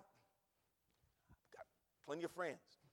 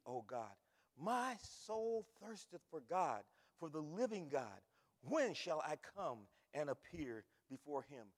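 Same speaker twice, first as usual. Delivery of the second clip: lower, measured Bible reading; solemn psalm reading; scripture reading; 3 semitones lower than usual. Acted. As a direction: read the psalm with reverence. Reads Psalm aloud.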